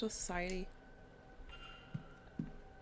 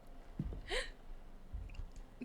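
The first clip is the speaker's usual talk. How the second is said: hiccup; 6 dB quieter than usual. Real, not acted. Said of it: "that was actually a hiccup".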